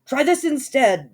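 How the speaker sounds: high, loud vicious retort; yell. A narrator's reading. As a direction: bark it as you swing. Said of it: "the prince yelled back".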